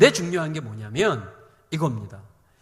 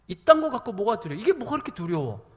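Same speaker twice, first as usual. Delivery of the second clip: raised, mock-scornful rebuke; dismissive scolding; 4 semitones higher, 3 dB louder than usual. Imagined Jesus belittling the disciples' fear, dismissive scolding. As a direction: chide them for being afraid. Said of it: "라는 식의 말씀이셨을까요?".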